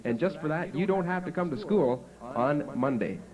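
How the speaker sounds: impressed teacher. Retold or imitated. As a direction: lay the praise on thick. Teacher praising a pupil.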